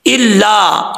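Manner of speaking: इल्ला whispered with a doubled l; whispered recitation. Shown as a demonstration. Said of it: "इसके बाद है".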